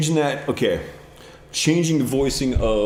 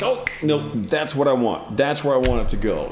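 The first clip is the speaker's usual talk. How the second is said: excited realization; 4 semitones higher, 3 dB louder, faster than usual. Retold or imitated. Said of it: "you finally hear like".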